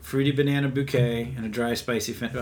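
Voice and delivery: brisk read of label text; reading marketing copy. Acted. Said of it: "I'm pulling up their marketing materials".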